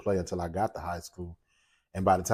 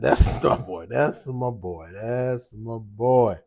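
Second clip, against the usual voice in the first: proud dad; 2 semitones higher, much slower than usual. Retold or imitated. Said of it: "I said".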